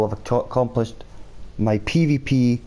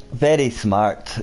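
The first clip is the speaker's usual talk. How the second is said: dry slow sarcasm; much slower than usual. Acted. Reading a chat joke.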